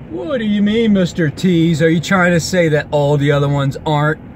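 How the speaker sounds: mock-baffled interviewer; incredulous questioner. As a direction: press him with a pointed question. Voices a challenger questioning him.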